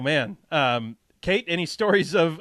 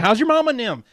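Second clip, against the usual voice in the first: put-on Wisconsin accent; 6 semitones higher, 5 dB louder than usual. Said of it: "the Wisconsin equivalent".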